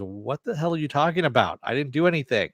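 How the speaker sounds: mildly acted, baffled indignation; indignant protest. Accused teammate answering her over crucifixes, indignant protest.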